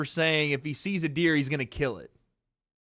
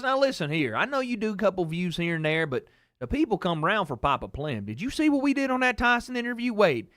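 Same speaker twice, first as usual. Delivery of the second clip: Southern dad impression, rising higher as he brags; self-important dad; 3 semitones higher than usual. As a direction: play dad as the self-declared star. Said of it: "you couldn't tell him that he is not the biggest star".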